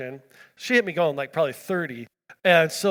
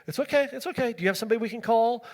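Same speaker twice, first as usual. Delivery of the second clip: imitated reassurance; 5 semitones higher, faster than usual. Soothing the crying woman after crash.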